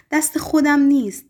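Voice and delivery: high, loud laughing cry on «خودم». A narrator's reading. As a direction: blurt it out through laughter. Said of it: "به فریاد گفت".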